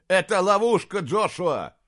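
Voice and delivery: loud, high urgent warning; warning shout. Acted. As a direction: shout to the prince across the fight. Knight warns prince in battle. (Диарнот кричит принцу: ловушка!)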